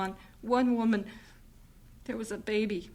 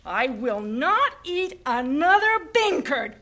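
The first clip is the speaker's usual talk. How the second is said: slow, deliberate refusal; fed-up slow; slow disgust; 5 semitones higher, slower than usual. Acted. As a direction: spell out your disgust. Wife refusing bean curd.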